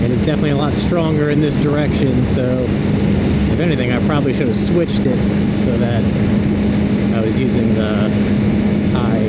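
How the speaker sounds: helmet mic on the highway, wind roaring; talking inside a helmet over wind noise. Real, not acted. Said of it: "I do have a lot of wind noise in my helmet".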